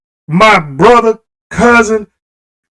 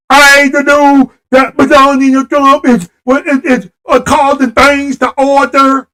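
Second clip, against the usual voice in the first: mild mock of Melania's halting talk, higher; a light, halting Melania send-up; 4 semitones higher than usual. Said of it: "That's the way she talk".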